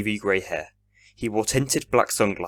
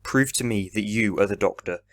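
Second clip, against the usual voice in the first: confident. Acted. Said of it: "Ian spoke confidently".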